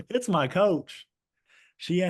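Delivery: laughing through the words; can't stop laughing. Real, not acted. Laughing while telling story.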